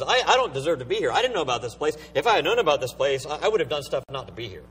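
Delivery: quick, acted-out self-justifying; mildly defensive, hurried protest; making excuses. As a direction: rattle off excuses as the rich man. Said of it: "He's making excuses".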